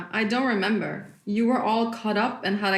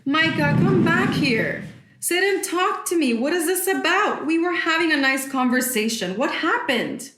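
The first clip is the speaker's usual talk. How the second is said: mother calling her daughter back, raised voice; calling after her; 6 semitones higher than usual. Acted. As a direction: call her back into the room. Mother calls after leaving daughter.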